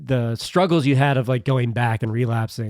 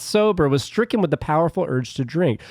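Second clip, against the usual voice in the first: funny voice; 4 semitones higher than usual. Pretend. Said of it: "Read it in a funny voice".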